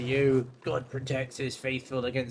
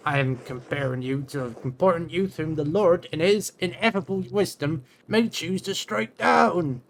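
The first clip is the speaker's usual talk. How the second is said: preachy warning; 4 semitones higher, 5 dB louder than usual. Acted. Monk threatens divine punishment.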